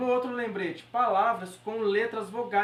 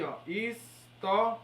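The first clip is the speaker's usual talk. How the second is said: syllables spelled out; slower than usual. Shown as a demonstration. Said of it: "a gente separa aqui".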